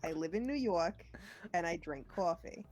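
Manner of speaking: light New York accent on the rhyme. Shown as a demonstration. Friend leads a New York accent rhyme. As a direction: recite it as a New Yorker would. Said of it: "repeat after me".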